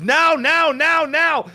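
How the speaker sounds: high, loud repeated order; urgent surgeon command. Retold or imitated.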